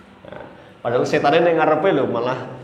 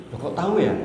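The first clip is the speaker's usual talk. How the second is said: startled brothers; 5 semitones higher, faster than usual. Retold or imitated. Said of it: "Langsung mereka kan kaget gitu".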